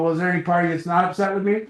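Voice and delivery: fast, laughing through the question. Retold or imitated. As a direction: ask it while laughing. Laughing through quote to wife.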